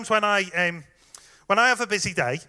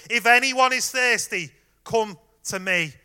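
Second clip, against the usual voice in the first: a raised, ringing call to the crowd; loud call; 4 semitones higher, 3 dB louder than usual. Retold or imitated. Jesus calling to the festival crowd, loud ringing call. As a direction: call out over a packed festival. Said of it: "in a loud voice goes".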